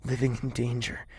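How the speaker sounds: rising distress; anguished plea. Acted. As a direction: plead with her out of worry. Distressed plea to lover, louder.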